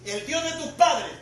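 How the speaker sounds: solemn, slow-opening proclamation as God; God declaring himself. Retold or imitated. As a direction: announce who you are, stretching the first words. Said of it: "dice que Dios le dijo".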